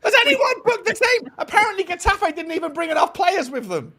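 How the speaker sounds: half-laughing disbelief at the chaos; mock outrage. Real, not acted. Fans on a podcast mocking the club, half-crying in disbelief.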